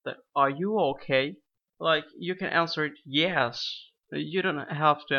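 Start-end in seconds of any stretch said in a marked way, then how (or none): 0.3-1.4 "Are you okay?" said with a rising end; rising question tune. Shown as a demonstration. Teacher isolates the question, rising tune. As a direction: end on an upward lift. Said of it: "Notice the voice tone, the intonation".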